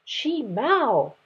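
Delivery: sharp mother's scold. Acted. Mother lion scolding her cub, a sharp reproach. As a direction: call the cub to order. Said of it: "the mother lion scolded".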